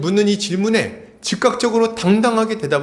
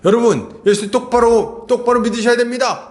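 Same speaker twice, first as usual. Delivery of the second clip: loud, emphatic mock preaching, climbing higher; hammed-up pulpit delivery, rising to a high finish; imitated preacher; 3 semitones higher, 4 dB louder than usual. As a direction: build like a pastor exhorting the congregation. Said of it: "이렇게 얘기를 하셨다는 거예요".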